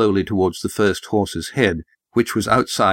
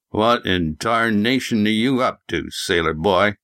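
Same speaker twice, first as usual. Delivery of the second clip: put-on old prospector. Gruff farmer Jeb voiced.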